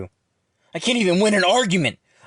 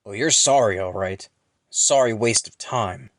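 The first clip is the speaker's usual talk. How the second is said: loud scornful opening, dropping off to a curt dismissal; scornful coach; 4 dB louder than usual. A narrator's reading. Ron rejects his student's apology, angry and scornful. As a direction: throw the apology back with angry emphasis.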